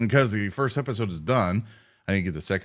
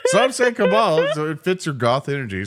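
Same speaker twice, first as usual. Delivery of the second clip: excited; 7 semitones higher, 6 dB louder than usual. Real, not acted. Excited laughing guess.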